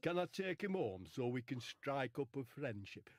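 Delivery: lightly put-on comedian's voice; a hint of an impression, eager question; Charlie Williams. Comic first tries Phil Jones's line, light Charlie Williams impression. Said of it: "Did speak like that".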